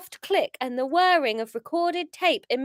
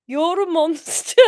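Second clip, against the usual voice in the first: louder first stab at Scouse; attempted Scouse; 3 semitones higher, 8 dB louder than usual. Paul to his killer, attempted Scouse. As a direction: try accusing in a Scouse accent. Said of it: "Um, Scouse".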